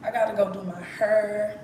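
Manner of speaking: country Texas twang, "hair" like "her"; Texas accent. Shown as a demonstration. Showing viewers her own talk, country Texas accent. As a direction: lean on "hair" so it becomes "her". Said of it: "I don't know why I talk like that".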